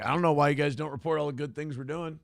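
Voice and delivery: lightly mocking Stephen Miller, fast and snide; imitating Stephen Miller scolding the press, passive-aggressive. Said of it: "He's kinda passive-aggressive with his shit".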